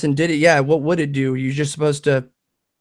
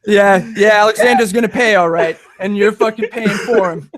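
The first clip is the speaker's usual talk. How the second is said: mock vengeful; 3 semitones higher, 5 dB louder than usual.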